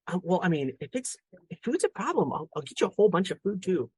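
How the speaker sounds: imitated boy bargaining, high voice; deadpan serious kid. Classmate offering dad cat food, imitated earnest bargaining. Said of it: "deadpan serious".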